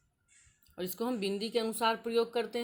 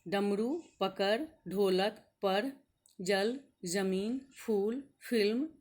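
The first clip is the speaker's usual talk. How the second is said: slow, careful reading of each word; teacher reading example words slowly; much slower than usual. Shown as a demonstration. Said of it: "ये अन्य वर्ण हैं".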